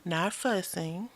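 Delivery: slow, whispered, teasing correction; soft whisper. Real, not acted. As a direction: breathe it out slowly and sweetly. Wife correcting husband teasingly.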